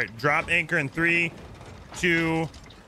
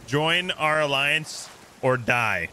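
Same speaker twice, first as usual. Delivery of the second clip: slow dictation; much slower than usual. Shown as a demonstration. Slowly dictates the threat to crewmate.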